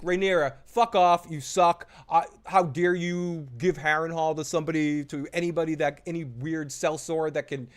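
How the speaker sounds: mock angry rant. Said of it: "someone's basically like".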